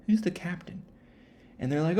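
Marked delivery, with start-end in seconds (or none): 0.1-0.8 hushed secretive whisper; whispered repeat. Retold or imitated. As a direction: whisper the question to yourself.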